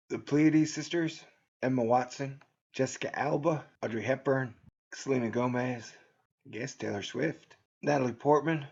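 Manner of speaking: normal talking voice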